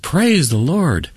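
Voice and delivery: high, slow, drawn-out exclamation; joyful cry. Retold or imitated. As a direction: imitate crying out with joy. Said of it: "She just cried it out with joy".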